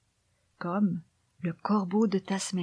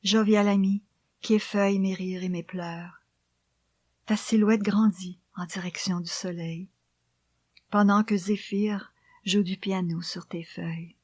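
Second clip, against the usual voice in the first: poem recitation. Acted. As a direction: read the poem gently, almost whispered.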